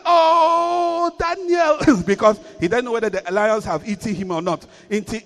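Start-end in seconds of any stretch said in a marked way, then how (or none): 0.0-2.0 high anxious call to Daniel; lamentable cry. Acted. King crying out anxiously to Daniel in the den. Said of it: "he cried with a lamentable voice".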